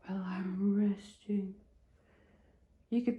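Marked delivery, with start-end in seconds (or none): 0.1-1.6 whispered indignant cat; grumpy cat voice. Retold or imitated. Voicing her grumpy resting kitty, indignant whisper. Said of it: "He's like".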